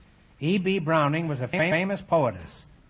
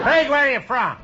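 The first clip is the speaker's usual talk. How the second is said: laughing question; 11 semitones higher, 6 dB louder than usual. Real, not acted. Host bursts out mid-joke.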